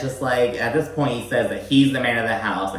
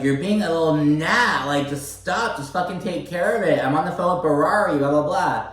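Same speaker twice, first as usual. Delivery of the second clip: high, impatient telling-off; irritated scolding; 5 semitones higher than usual. Retold or imitated. Stanberry scolding husband while on phone with Ferrari, impatient. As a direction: shoo away a pest, rattling on. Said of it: "She's like".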